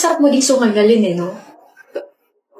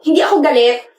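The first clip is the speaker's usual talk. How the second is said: touch of irritated shouting; annoyed raised voice; 2 semitones higher than usual. Acted. Upset girl denying anger to friend, slightly raised voice. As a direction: deny it with a mildly raised voice. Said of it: "ba't ka sumisigaw?".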